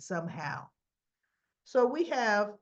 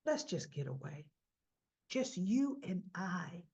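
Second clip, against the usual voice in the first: coaxing; 6 dB quieter, slower than usual. Retold or imitated. Christine luring Danny away.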